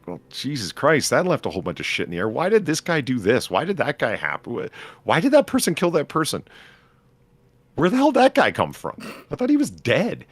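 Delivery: high-pitched, incredulous rant of questions; exasperated viewer. Acted. Acts out baffled viewer's reaction.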